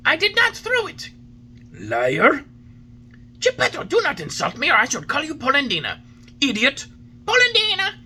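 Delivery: put-on two old men hurling names; trading insults. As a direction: fling each insult back.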